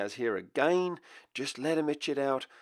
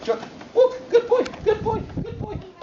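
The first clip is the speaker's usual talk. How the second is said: very high, loud, fast repeated praise; high-pitched voice; 7 dB louder than usual. Real, not acted. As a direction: squeal the cues to get the puppy moving. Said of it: "that high-pitched voice, fast, repetitious".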